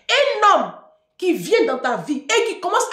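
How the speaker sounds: high, loud burst on "Un homme"; loud emphatic warning. Real, not acted. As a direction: hammer the warning home.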